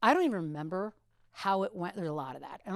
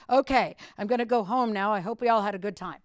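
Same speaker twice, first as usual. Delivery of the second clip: nervous sign-off; 5 dB louder than usual. Retold or imitated. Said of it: "you're talking like this".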